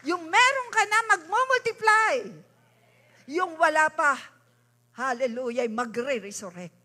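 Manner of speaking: loud fervent prayer declaration; loud, urgent preacher's prayer; preaching at full force. Acted. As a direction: proclaim it over the congregation like a revival preacher.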